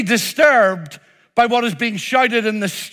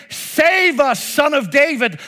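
crowd pleading; 5 semitones higher than usual. Retold or imitated. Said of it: "They're saying".

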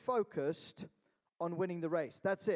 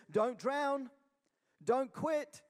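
trainer's urging; 5 semitones higher, much slower than usual. Retold or imitated. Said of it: "the trainer just looks at the student and says".

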